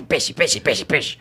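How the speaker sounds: aggressive monster shark voice, far from cute; macabre creature voice. Shown as a demonstration. Dubber demos the cartoon shark's harsher original voice, macabre and aggressive. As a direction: make the little shark sound menacing. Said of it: "Ficou macabro".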